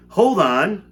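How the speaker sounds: high, loud cry of warning. A narrator's reading. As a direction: call out high and loud: hold on. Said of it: "cried Mister Wonka".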